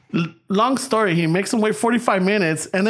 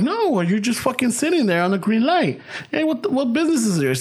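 higher, heated comeback; retort; 6 semitones higher than usual. Retold or imitated. Driver snapping back at the cop, higher and heated. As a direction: argue back like you were wronged.

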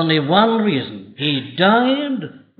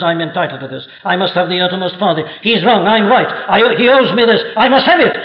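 self-righteous demand. Retold or imitated. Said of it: "rises up and says".

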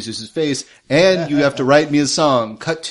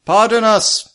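formal paladin, raised pitch; 4 semitones higher than usual. Acted. Paladin excusing himself to the giant creature, formal and raised. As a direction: call out courteously in a higher voice.

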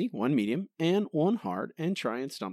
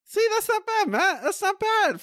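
mock praise; 6 dB louder than usual. Real, not acted.

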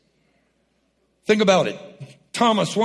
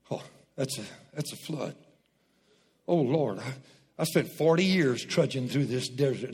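mock despair; 5 semitones lower, 5 dB quieter than usual. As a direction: lower and much softer, a lightly voiced weary complaint. Voicing despairing Israelite at flood.

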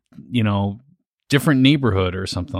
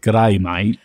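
Australian accent. Shown as a demonstration. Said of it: "You have to start with".

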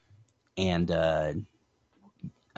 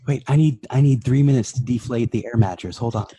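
loud fussy high complaint; whiny camper in a hurry; 5 semitones higher, 6 dB louder than usual. Pretend. Mocking characters packing.

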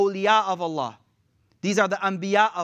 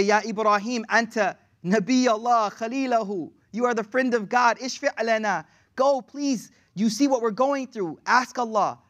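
raised-pitch, urgent appeal; pleading; 3 semitones higher than usual. Acted. The people begging Ibrahim to ask Allah, pleading. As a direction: implore a revered figure for help.

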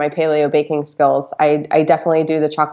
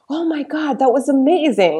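higher, delighted rave; gushing friends; 8 semitones higher than usual. Retold or imitated. People reporting back on the recipe, higher gushing rave. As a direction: imitate a thrilled guest. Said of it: "they're like".

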